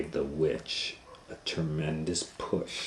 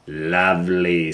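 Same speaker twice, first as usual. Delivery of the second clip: slow, savoring witch; lightly voiced witch; 7 dB louder than usual. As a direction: drag the word out like a gloating witch. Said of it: "said the witch".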